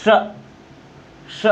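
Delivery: श with the tongue curled back to the ridge; retroflex sh demo. Shown as a demonstration. Teacher demonstrating retroflex श to students. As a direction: curl the tongue back and hiss श. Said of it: "कहाँ पे?".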